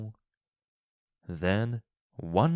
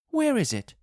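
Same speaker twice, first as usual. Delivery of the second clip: much higher, begging wife; pleading wife; 4 dB louder, faster than usual. A narrator's reading. Wife begs husband for the paw, high and pleading. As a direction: plead for it desperately. Wife's feverish voice.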